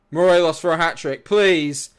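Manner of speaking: loud, begging shout; will the striker to score; loud pleading. Real, not acted. Streamer shouting for his striker to score, pleading.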